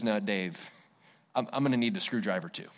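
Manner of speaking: low, soft, with a dry wry edge; gentle Jesus voice. Retold or imitated. Jesus takes the pastor's shame screwdriver, low and soft. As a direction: quietly take the tool away.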